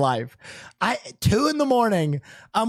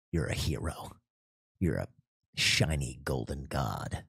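mock self-praise; 11 dB quieter than usual. Praising himself in bed while wife sleeps, soft low murmur. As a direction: purr it to yourself like a vain idol. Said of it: "I'm still there sitting in bed like".

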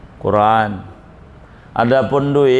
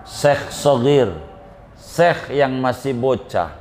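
solemn boss addressing followers; 3 semitones lower than usual. Acted. Boss to his henchmen, solemn farewell address. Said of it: "Kata bosnya begini".

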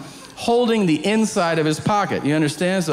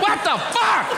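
much higher, startled mock outburst; startled bystander. Comedian quoting a startled shopper reacting to him, high surprised voice. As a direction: play the stunned shopper. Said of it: "they're like".

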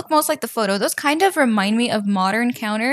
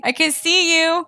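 creepy voice; 6 semitones higher than usual. Pretend. Gap in the game staring at her.

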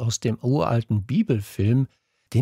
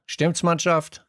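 higher, drawn-out call to a team; in die Klasse gerufen; 7 semitones higher than usual. A narrator's reading. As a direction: call it out to the whole class, stretched. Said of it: "rief er in die Klasse hinein". (gedehnt in die Klasse gerufen)

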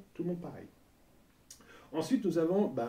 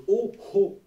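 exhaled ho; 6 semitones higher, 9 dB louder than usual. Shown as a demonstration. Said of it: "le H expiré de préférence".

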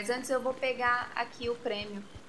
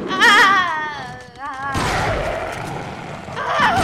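high frightened cries; startled yelps; 4 semitones higher, 9 dB louder, much slower than usual. Real, not acted. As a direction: yelp at each scare. Jump scares from dogs. (gritos de susto)

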